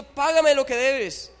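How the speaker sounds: angry demand. Acted. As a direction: choke the words out at him. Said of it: "Le ahogaba, diciendo".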